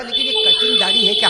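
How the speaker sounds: high, quick feigned puzzlement; innocent-sounding question; mock puzzled. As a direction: play dumb about the beard. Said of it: "तो मैंने कहा".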